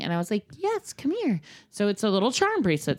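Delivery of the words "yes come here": obliging parent. Retold or imitated. Parent answers child sweetly.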